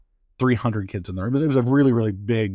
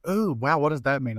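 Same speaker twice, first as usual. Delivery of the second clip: higher-pitched, mildly wowed imitation of a colleague; sweet wonder; 3 semitones higher than usual. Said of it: "in a very sweet way".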